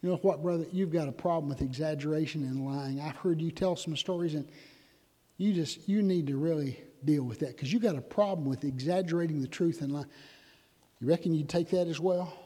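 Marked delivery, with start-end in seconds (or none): 0.0-10.1 compassionate rebuke. Pretend. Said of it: "with all the love I can muster and compassion".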